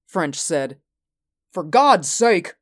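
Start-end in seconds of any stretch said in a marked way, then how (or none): 1.5-2.5 loud, higher, drawn-out exclamation; exclaiming. A narrator's reading. Peterson protesting at the order to shoot, exclaiming. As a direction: cry out in protest, stretching the words. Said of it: "Peterson exclaimed".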